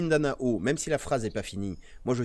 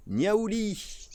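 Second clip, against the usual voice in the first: higher repeat of Niaouli; 9 semitones higher than usual. Shown as a demonstration.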